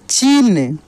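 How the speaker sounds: चीन with the ī stretched; drawn-out long ī. Shown as a demonstration. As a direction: blend चीन, holding the ī long. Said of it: "खींच कर किया जाता है". (चीन की ई खींच कर)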